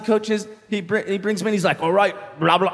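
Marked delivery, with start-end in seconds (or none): 1.8-2.7 garbled attempt at an Irish accent; failed Irish accent. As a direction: try an Irish coach, give up in gibberish. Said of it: "I can't do an Irish accent".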